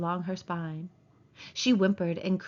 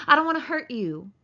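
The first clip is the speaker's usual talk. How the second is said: put-on louder, higher childlike appeal; anxious pleading; 5 semitones higher, 6 dB louder than usual. Man pleading with the still woman, anxious. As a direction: plead fretfully.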